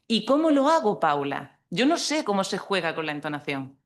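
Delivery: imagined puzzled student. Acted. Trainer voices student asking Paula how to do it, mock bewilderment.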